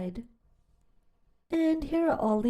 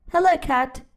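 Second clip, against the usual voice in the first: cheerful duck greeting; 4 semitones higher, 6 dB louder than usual. Acted. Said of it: "said Duck".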